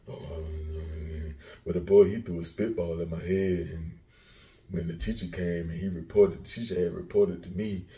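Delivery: subdued imitation of a kid explaining himself; lightly voiced child giving mama excuses. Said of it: "That's how you was sounding".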